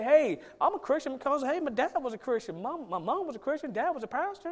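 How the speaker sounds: a hint of a child claiming faith through parents; imitating his kids. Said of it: "my kids won't be able to say".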